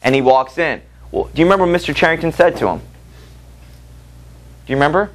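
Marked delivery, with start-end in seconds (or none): 2.8-5.1 breathy unvoiced whisper, slow. Real, not acted. Teacher whispering a question to the class, slow and hushed. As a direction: lean in and whisper the question, slowly.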